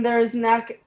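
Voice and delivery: hiccuping mid-sentence; speech cut by hiccups. Real, not acted. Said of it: "I'm hiccuping".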